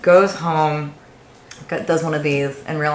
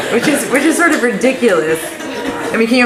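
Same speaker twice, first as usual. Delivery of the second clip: real laughter spilling into the words; amused, giggling through it; laughing; 8 semitones higher, 5 dB louder than usual. Real, not acted. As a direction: still laughing, higher and louder. Still laughing after quote.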